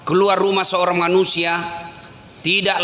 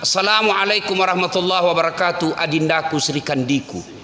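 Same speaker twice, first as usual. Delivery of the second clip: loving husband; 2 semitones lower than usual. Retold or imitated. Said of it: "Alangkah bahagianya suami datang".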